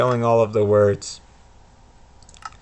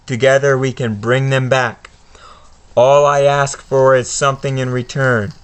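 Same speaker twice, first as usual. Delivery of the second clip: Voldemort. Acted. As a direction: tempt and threaten the boy. Reads Voldemort's speech.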